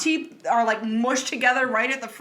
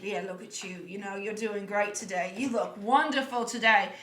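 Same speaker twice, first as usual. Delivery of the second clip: soft mirror pep talk; 3 semitones lower, 6 dB quieter than usual. Retold or imitated. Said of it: "smile in the mirror and be like".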